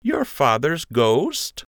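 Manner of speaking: slow, careful question; slowly. A narrator's reading. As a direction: ease it out slowly. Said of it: "Lund continued slowly".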